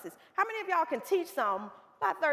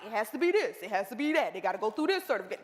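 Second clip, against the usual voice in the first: strict officials; 6 semitones lower, faster than usual. Retold or imitated. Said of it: "they like".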